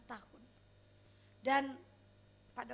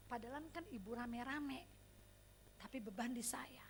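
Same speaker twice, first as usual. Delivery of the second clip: whispered confession; 3 semitones lower, 10 dB quieter than usual. Real, not acted.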